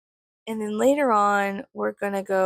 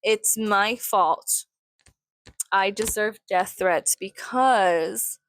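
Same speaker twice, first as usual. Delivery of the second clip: mocking. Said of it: "as one of the commenters so kindly said".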